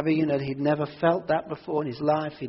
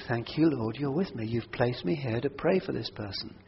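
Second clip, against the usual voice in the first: quiet grateful prayer; 3 semitones lower, 4 dB quieter than usual. Retold or imitated. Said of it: "you immediately think".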